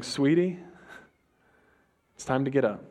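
normal talking voice

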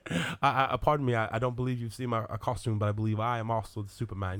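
exaggerated British accent; Henry Cavill. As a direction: play a polite British film star. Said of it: "You do Henry Cavill".

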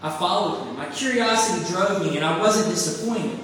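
earnest, expressive storytelling read; preacher reading a short story aloud; story narration. A narrator's reading. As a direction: read the parable to the congregation with feeling. Reads The Rag Man story aloud.

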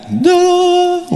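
high, bright sung-out da-da; triumphant ta-da. Real, not acted. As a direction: announce the mic's return like a magic trick. Mic comes back on.

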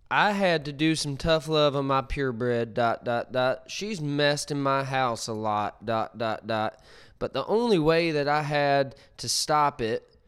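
a hint of a preachy dog owner reading her post; lightly voiced self-righteous owner, reading out every dot; imitation voice. Reading a stranger's post aloud, lightly mimicking the woman who wrote it. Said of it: "I'm gonna read it exactly".

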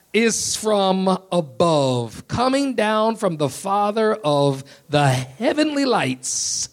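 slow, swelling scripture reading; rising impassioned oratory. Acted. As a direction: read it like a preacher building.

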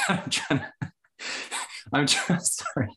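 laughing through the words; can't keep a straight face; trying not to smile. Real, not acted. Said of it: "I can't keep a straight face".

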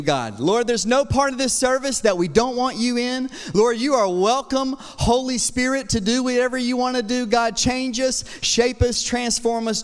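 earnest, flowing public prayer. Real, not acted. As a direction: lead the congregation in heartfelt prayer. Leads the church in prayer.

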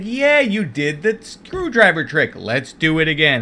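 mock companion voice. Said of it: "And he's like".

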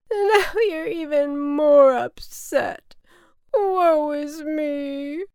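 loud, high, slow theatrical wail; hammed-up bawling, vowels dragged out; crying. A narrator's reading. Cloud sobs at upsetting the boy, wailing. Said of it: "the cloud continued to cry".

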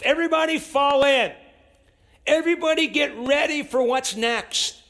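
rally everybody like a sergeant; preacher playing the sergeant ordering everyone to fall in; mock command. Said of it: "they might command you".

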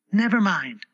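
high, gentle reassurance; soothing. A narrator's reading. Alice comforts the trembling Tiger Lily, soothing. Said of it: "said in a soothing tone".

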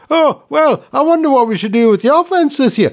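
a hint of a stuffy boardroom voice; mock executive. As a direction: play a dithering executive at a meeting. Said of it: "'cause that's how they talk".

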